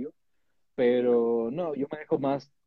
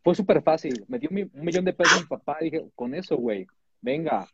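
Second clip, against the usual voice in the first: fresa voice; 6 dB louder than usual. Acted. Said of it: "Por qué sigo hablando como fresa".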